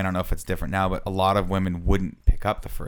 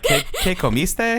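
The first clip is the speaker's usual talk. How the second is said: mock confused Spanish; 10 semitones higher, slower than usual. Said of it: "You're like".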